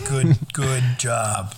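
slow whispered praise; whispering. Pretend. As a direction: breathe it out slowly.

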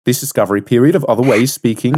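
put-on dubious Australian accent, reading aloud; bad Australian accent. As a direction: attempt an Australian accent and falter. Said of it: "I'm gonna stop".

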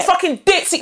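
mock contempt. Host acts out what comes out in anger, scornfully. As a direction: toss out the insult with mock disdain. Acting out insults slipping out.

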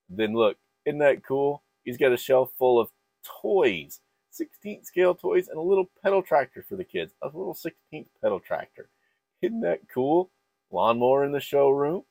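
high, delighted gushing; excited. Real, not acted. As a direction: gush over the tiny details. Admiring detailed display.

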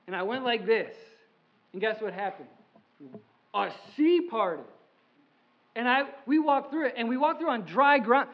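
excited first-person storytelling as Moses; preacher playing Moses, lightly voiced; speaking as Moses. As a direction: tell it like Moses bragging on God.

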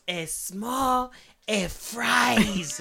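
high, yelled order back; mock yell. Lady yelling the order back at the customer, high and loud. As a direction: snap the order back at him. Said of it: "And she's yelling at me".

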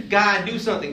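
loud, high plea to God; acted demand. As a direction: cry out for help, hammed-up.

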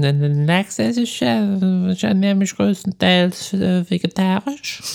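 imitating a video guy. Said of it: "Kennst du nicht dieses Video".

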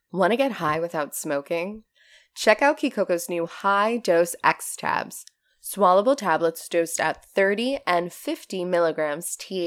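steady, upbeat sponsor read of British-free plain copy. Acted. Host reading a cannabis sponsor ad, upbeat ad read. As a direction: sell the tabs like a radio spot.

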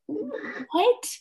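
high, puzzled imitated what; a light mock bewildered what; mock confused. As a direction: act out their baffled glance. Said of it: "And they're like".

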